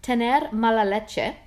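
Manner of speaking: slow, careful attempt at a Spanish accent. Shown as a demonstration. Host shows a Spanish idiom to her guest, slow Spanish accent. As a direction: say Tener mala leche with your best Spanish accent. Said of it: "did I say that in a good Spanish accent".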